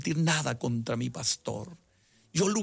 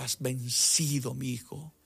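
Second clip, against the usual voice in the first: tender Jesus; 3 semitones lower, slower than usual. Retold or imitated. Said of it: "como si Jesucristo me dijera".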